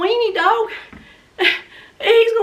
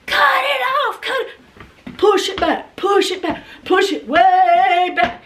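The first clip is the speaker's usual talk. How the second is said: frantic pleading; 2 semitones higher than usual. Retold or imitated. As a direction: beg him to push it back, near tears. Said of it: "And so I'm going".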